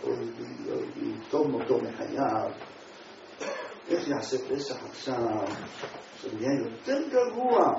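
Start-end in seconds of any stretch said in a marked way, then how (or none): 0.0-2.5 lamenting. Retold or imitated. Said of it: "והיה בוכה".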